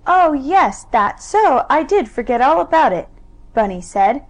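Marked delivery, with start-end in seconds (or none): 0.1-3.1 put-on excited child. Bunny suddenly remembering.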